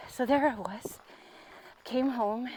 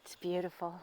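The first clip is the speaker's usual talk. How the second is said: whispered in awe, much softer; awed whisper; 5 semitones lower, 12 dB quieter, faster than usual. Real, not acted. Vlogger admires the view for viewers, whispering. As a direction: breathe it out in wonder at the view.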